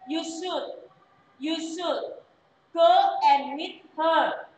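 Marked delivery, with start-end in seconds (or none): 3.4-4.5 "her" said slowly and clearly, not "your"; slow careful "her". Shown as a demonstration. Teacher corrects a student's "her" slowly. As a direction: stretch out "her" so it can't be misheard. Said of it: "Bukan her, bukan your, tapi her".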